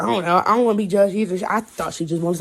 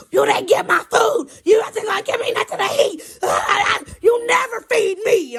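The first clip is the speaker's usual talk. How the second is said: high, loud wailing tantrum; imitated freak-out; 14 semitones higher, 5 dB louder than usual. Girl accusing the driver over food, acted screaming. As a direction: screech it like a kid in meltdown. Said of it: "she freaks out even more".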